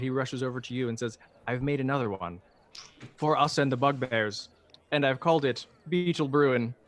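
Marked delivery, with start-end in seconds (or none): 1.5-6.7 mildly excited, proud announcement; lightly acted eager inventor. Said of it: "he's very excited".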